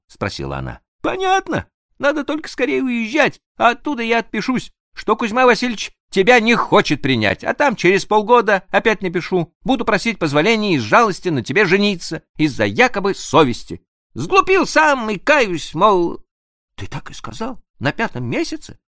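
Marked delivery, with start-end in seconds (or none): 1.0-16.2 higher, louder quick excited plan; eager young prince. Acted. 16.7-18.8 surprised question. Acted. Annushka asks surprised.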